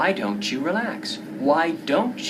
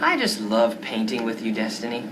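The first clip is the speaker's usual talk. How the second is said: lower, put-on character voice; skit character voice; 7 semitones lower than usual. Skit partner sweetly voiced while painting together. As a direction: play the painting friend.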